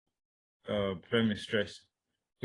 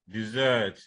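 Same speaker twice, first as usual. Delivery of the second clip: dessert as di-ZERT; stress on second syllable. Shown as a demonstration. Teacher repeating the verb, dessert stressed on ZERT. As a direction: put the weight on ZERT in dessert. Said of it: "stress that you could have".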